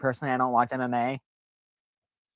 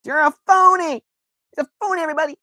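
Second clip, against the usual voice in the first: high shrieking cartoon accusation; Simpsons cartoon voice; 4 dB louder, faster than usual. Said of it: "It's like in the, in The Simpsons".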